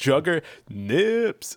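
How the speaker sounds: extra emphasis on "nips". Explaining how to say the name Juggernips: strong stress on nips. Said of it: "You have to put like extra pronunciation or like extra emphasis on the nips".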